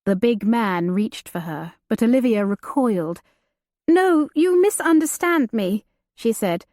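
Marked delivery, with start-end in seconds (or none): 3.9-5.8 frightened pleading. Acted. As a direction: plead quickly, afraid.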